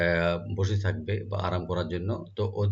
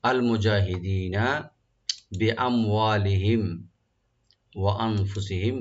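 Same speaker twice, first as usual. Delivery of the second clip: slow recitation. Shown as a demonstration. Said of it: "লাম জালালা deep হবে".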